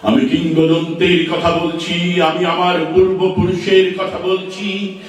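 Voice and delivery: measured, declaimed verse with drawn-out line endings; poetry recitation. Acted. Recites a poem after introducing it. (ধীর লয়ে আবেগ দিয়ে কবিতা আবৃত্তি)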